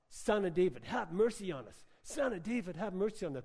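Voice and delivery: mild retold yell. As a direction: imitate blind men calling out, half-hearted. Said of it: "they yell out".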